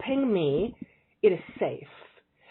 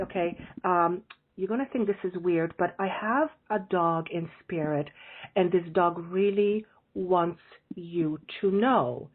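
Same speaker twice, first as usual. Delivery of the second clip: careful; slower than usual. Retold or imitated. Careful message to big stranger.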